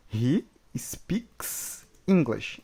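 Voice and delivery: very slow, every word laid out; slow model reading. Shown as a demonstration. Teacher modelling the sentence slowly. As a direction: read it slowly for learners. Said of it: "ele fala inglês".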